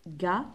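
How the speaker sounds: "ga" with a hard G; hard G syllable. Shown as a demonstration. Teacher sounding out G with A, hard-G "ga". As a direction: say "ga" as a separate syllable, G as in gâteau. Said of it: "se prononce G".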